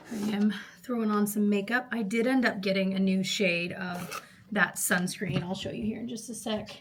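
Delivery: out of breath from the stairs; panting a little between words. Real, not acted. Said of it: "Sorry, I'm out of breath".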